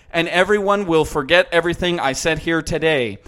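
smug villain confession, lightly voiced; mock Archer confession.

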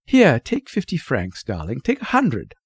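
eager-to-please mother's voice; placating mother. Acted. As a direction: press it on them, lifting at the end. Mother presses money on daughter.

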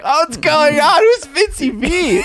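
imitating a confused little girl; high mock child asking who's there; daughter voiced. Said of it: "she was like".

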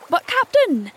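high, loud startled objection; protesting. A narrator's reading. Pirate objecting to his captain's order, protesting.

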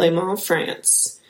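"Le Mans" slowly as luh MAHN; careful pronunciation. Shown as a demonstration. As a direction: spell out "Le Mans" slow, silent s. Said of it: "It's M A N S".

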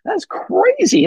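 slow, high retold disbelief; amazed. Hunters marvelling at the runner from Boston, slow amazed disbelief.

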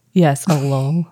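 Missouri twang on lull; Missouri accent. Shown as a demonstration. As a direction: drawl the vowel in lull. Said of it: "my Missouri accent".

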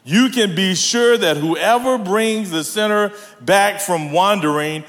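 very slow, measured Bible reading; scripture reading. Acted. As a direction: read out the verse deliberately, word by word. Reads scripture aloud.

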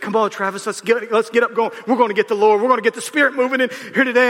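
imitating grandma's revival urging. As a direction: call him up from the pews, building. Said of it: "she said".

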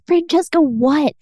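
high-pitched, mildly panicked questioning; retold panic. Girlfriend demanding answers from nervous boyfriend, retold panic. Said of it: "I was panicking".

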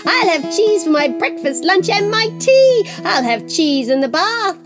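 high, gushing cheese lover; greedy excited neighbour. Acted. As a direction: swoon over cheese, high-pitched. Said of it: "he said".

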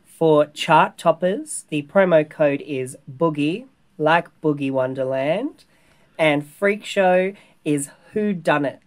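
crisp, announcer-style read; newsreader voice. Real, not acted. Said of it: "I love that you sound like a, a newsreader".

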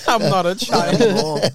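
laughing. Real, not acted. Mocking friend's line, laughing.

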